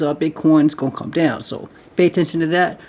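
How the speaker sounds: short of breath from talking fast; running out of air mid-sentence. Real, not acted. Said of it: "run out of breath talking like this".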